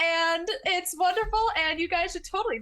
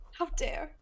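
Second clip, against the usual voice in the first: mock outrage; 8 dB quieter than usual. Mock outrage at expired sub.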